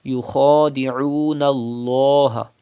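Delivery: يخادعون الله with the lam of الله thick and full; emphatic lam in الله; heavy lam. Shown as a demonstration. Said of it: "pronounce lam with thicker voice".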